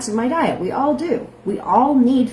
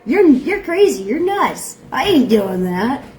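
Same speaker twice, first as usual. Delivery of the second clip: imitating reluctant guests, pitched up; mock refusal; 4 semitones higher, 4 dB louder than usual. Host quoting those who won't join her on camera, mock refusal. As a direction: mimic their protest, higher then dragging out the end.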